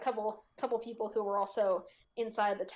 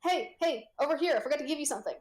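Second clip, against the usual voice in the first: hurried call, fast and raised; yelling over a crowd; 5 semitones higher, faster than usual. Acted. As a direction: shout over the noise, rushing. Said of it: "tries to yell over everyone".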